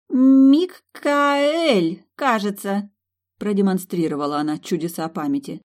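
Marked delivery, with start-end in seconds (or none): 0.1-2.9 loud, high proud announcement; boastful. A narrator's reading. Kendra proudly naming the groom, boastful. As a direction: show off her memory. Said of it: "хвастливо провозгласила".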